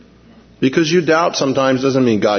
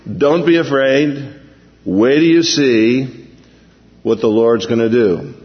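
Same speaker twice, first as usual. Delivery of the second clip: calm Moses. Retold or imitated. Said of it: "easy for him to say".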